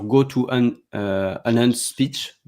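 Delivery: English words in a strong French accent; hesitant English with a French accent, slowing on the last words; accent français en anglais. Real, not acted. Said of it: "Désolé pour mon accent". (anglais prononcé avec un accent français)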